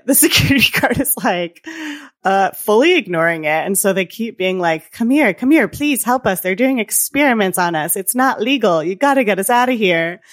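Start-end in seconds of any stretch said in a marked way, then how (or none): 4.9-10.2 mild mock urgency, pitched up; imitated pleading. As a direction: act out a plea for help. Retold pleas for help.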